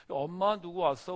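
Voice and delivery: slow, loud call to the back room; calling to mom. Retold or imitated. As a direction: shout the question through the house. Child calls mother indoors. (아이가 엄마를 크게 부르며 천천히)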